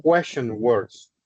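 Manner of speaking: "question words" drawn out slowly; teacher spelling out English vocabulary slowly; slow careful English. Shown as a demonstration. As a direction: say the English term slowly for learners. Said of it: "Que son para preguntas".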